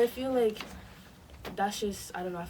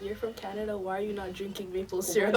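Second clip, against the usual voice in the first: a laugh breaking into the mock question, louder at the end; 5 dB louder than usual. Mocking imagined Canadians, laughing through the question. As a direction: ask it while cracking up at the absurdity. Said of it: "going up to these Canadians".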